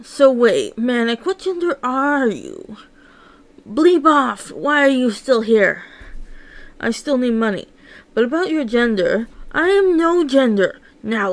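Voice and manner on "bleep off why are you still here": sharp, loud brush-off; angry dismissal. Acted. Boss throwing Manic out, loud and angry. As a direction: bark them out of the room.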